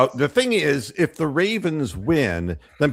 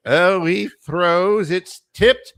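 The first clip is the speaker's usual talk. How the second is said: higher, louder excited sportscaster call; mock play-by-play; 8 semitones higher, 5 dB louder than usual. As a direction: call it like a touchdown run. Mock play-by-play of dog walk.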